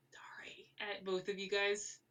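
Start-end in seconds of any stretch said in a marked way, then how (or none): 0.1-0.7 silent mouthed sorry, no voice. Acted. Coriolis apologizing to both players, mouthed without voice. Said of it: "sort of mouth".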